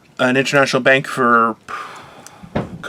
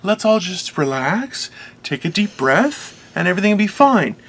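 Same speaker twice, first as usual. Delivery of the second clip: mock soothing; 3 semitones higher, 4 dB quieter than usual. Calming a tense store crowd, mock soothing voice. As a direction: talk everyone down gently. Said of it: "it's very difficult for me to be like".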